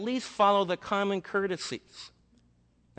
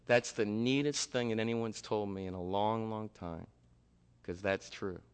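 hushed; 6 semitones lower, 6 dB quieter than usual. Retold or imitated. Humble pastor quietly moved.

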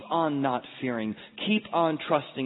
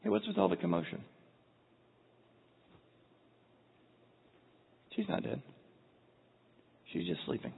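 soft, unbothered, slightly raised pitch; calm; 5 semitones higher, 7 dB quieter than usual. Acted. Jesus to the wailing mourners, calm and soft. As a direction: say it calmly and gently amid uproar. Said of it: "and he says calmly".

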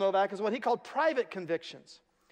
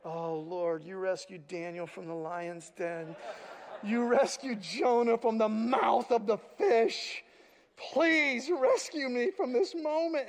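mock prayer; slower than usual. Pastor's desperate mock prayer.

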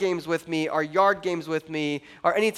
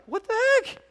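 high, shocked "what the heck"; mock indignation; 6 semitones higher than usual. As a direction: play Elijah as baffled and put out. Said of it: "I'd be like".

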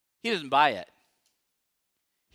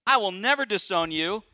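loud, higher vow; vehement Peter; 5 semitones higher, 6 dB louder than usual. Retold or imitated. Preacher as Peter vowing loudly to die with Jesus. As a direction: insist loudly, almost shouting. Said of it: "he goes on to say".

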